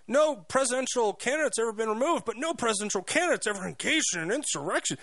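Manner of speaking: high, mocking upspeak with every statement rising; mock her by making each statement sound like a question; hammed-up airhead imitation with a rising tune at the end; airheaded dumb voice. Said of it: "airheaded, you know, dumb idiot voice".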